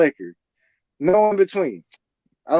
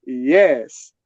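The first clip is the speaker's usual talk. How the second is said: low groggy yes; 6 semitones lower than usual. Retold or imitated. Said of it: "And I was like".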